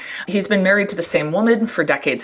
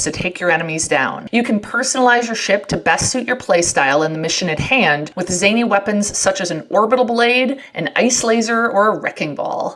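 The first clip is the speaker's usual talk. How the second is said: ad read. Acted. Reads sponsor ad.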